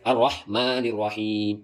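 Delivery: slow "الرحمن الرحیم" with breathy throat ح in both words; ح brought out. Shown as a demonstration. Teacher models the verse, ح clearly brought out. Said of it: "ہا نکالے".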